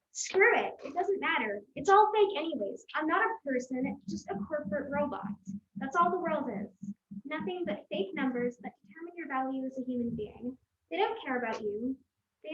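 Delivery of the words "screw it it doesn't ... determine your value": ranting. Acted. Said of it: "Rant poetry".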